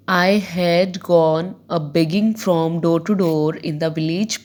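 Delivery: slow, measured classroom poem reading; deliberate, spaced-out recitation. Acted. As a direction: read the verse out slowly, phrase by phrase. Reads the poem aloud.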